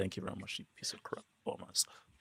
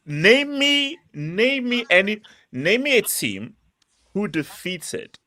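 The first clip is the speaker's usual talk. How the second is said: high, heated call-out, slower on "name me"; excited challenge; 8 semitones higher, much slower than usual. Real, not acted. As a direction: dare him to name a single team. Calling out Labil with a challenge.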